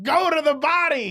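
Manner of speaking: loud, high shouted instruction; excited ringside yell; retold yell. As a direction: bark it like a corner man yelling at his fighter. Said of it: "he was yelling at the fighters".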